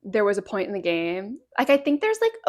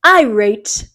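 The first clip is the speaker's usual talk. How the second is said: fighting game announcer; 8 dB louder than usual. Pretend. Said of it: "a fun announcer voice".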